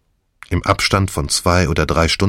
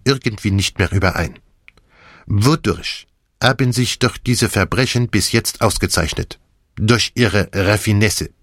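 Poirot voice; 3 semitones higher than usual. Acted. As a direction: play the gleeful plotting Belgian with big swings.

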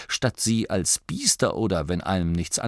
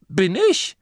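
whining; 11 semitones higher, 4 dB louder than usual. A narrator's reading. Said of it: "jammerte Turret".

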